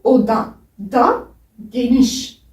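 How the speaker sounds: "oda da geniş" said slowly, each word set apart; slow, careful "oda da geniş"; slow Turkish demo. Shown as a demonstration. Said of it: "en langue turque, c'est bu".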